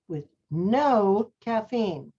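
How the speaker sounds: "with no caffeine" slowed, each word underlined; slow down and lean on "no caffeine". Shown as a demonstration. Teacher showing the class how Hallie stressed words, slow underlined phrase. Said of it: "She underlined them".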